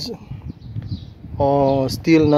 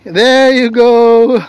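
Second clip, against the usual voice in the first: slow, high, louder happy cry; excited; 7 semitones higher, 5 dB louder, much slower than usual. Real, not acted. Woman thrilled as her cat Ming comes running, excited. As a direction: greet the cat with delight. Cat finally appears, delighted.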